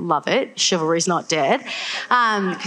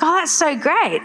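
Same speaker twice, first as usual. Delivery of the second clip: high-pitched mock delight; delighted dad; 9 semitones higher than usual. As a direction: voice a dad thrilled by good news. Dad reacts to proposal news.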